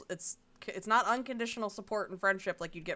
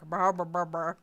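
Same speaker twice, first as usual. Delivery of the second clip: brr sound; 5 semitones lower than usual. Pretend. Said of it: "we're just like".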